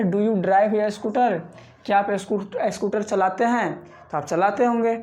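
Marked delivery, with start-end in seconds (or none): 0.0-1.4 very slow, word by word, for learners; slow teacher read. Shown as a demonstration. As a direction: spell each word out slowly like a teacher. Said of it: "देखिए क्या question क्या है". (धीमे-धीमे, हर शब्द साफ़ बोलते हुए)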